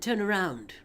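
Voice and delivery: firm, clipped order from the mysterious woman; stern commanding woman. Acted. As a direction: repeat it as a hard command. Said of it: "I said".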